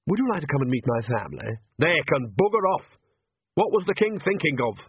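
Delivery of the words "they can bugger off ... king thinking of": higher-pitched, outraged outburst; indignant shouting. Acted. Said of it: "You don't have to shout like that".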